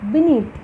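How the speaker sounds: బీనీత్ with a light బీ and force on నీత్; stress on second syllable. Shown as a demonstration. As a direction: keep బీ airless, push నీత్ in బీనీత్. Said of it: "బీ దగ్గర అసలు air force వాడటం లేదు".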